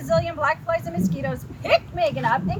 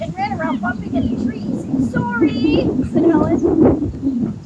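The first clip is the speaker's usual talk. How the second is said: loud excited reading; 6 semitones higher, 11 dB louder, slower than usual. A narrator's reading. Reading the climax aloud to the child, loud and high. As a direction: read loud and much higher.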